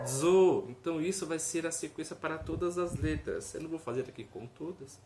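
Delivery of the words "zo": Bo said loud and clear; syllable demo. Shown as a demonstration. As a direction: call out Bo. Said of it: "Se tivesse um zain".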